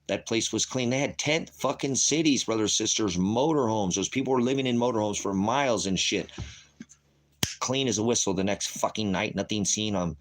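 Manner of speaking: rising outrage; worked up. Real, not acted. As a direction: pitch climbs with indignation. Ranting, heats up about San Francisco.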